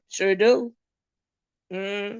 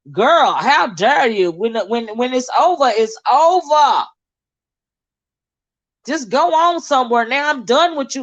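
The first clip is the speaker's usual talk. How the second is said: irritated dismissal; 3 semitones higher than usual. Retold or imitated. Voicing the ex brushing her off, hammed-up irritation. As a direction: shoo her off like a pesky fly. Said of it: "It sounded like he was irritated".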